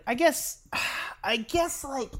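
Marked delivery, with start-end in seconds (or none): 0.7-1.2 dramatic sigh. Real, not acted. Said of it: "I'm very quiet because I'm thinking".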